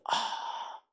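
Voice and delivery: long breathy sigh of lament. Acted. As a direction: let out a soft, voiceless "ah" of regret. Lamenting realization in hell.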